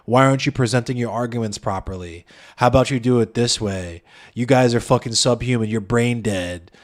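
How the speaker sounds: lightly put-on dismissive critic; mild mock lecture. Mimics critics dismissing their arguments.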